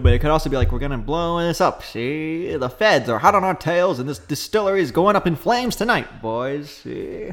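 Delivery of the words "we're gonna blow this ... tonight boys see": lightly voiced 1930s gangster, see; a hint of a Brooklyn mob boss; old-time mobster. Mobster bossing his boys, lightly voiced gangster accent. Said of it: "Italian mobster".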